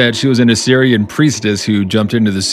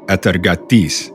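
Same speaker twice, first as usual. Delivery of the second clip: Atargatis said in a mock Spanish accent. Shown as a demonstration. Cohost shows off his Spanish accent on a name. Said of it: "That's my Spanish accent".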